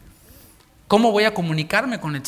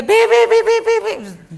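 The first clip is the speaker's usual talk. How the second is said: high, loud, laughing mock bugle peeps; laughing imitation of a sickly trumpet; feeble trumpet toots; 11 dB louder, much slower than usual. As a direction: squeak it out like a pathetic bugle call. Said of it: "y el clarín te".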